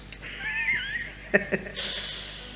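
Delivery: short high chuckle; amused preacher chuckle; laughing. Real, not acted. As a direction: laugh at the joke. Preacher laughs at own joke.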